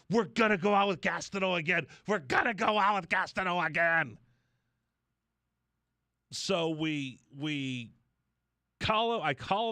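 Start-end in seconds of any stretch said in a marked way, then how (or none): 0.1-4.2 excited quote. Retold or imitated. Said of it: "Response is like".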